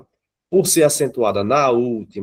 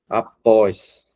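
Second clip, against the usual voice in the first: "após" with a strong PÓS; teacher demonstrating the stressed ending of "após"; final-syllable stress. Shown as a demonstration. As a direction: split "após" and land on PÓS. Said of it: "o fé mais forte".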